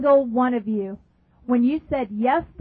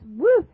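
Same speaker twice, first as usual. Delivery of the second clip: quick high swooping "woo"; a rush sweeping over you, voiced; imitated whoosh; 4 semitones higher than usual. Imitates compassion sweeping over her.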